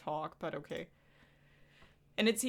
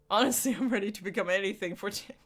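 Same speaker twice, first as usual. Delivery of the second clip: laughing; 4 dB louder, faster than usual. Real, not acted. Laughing fast aside.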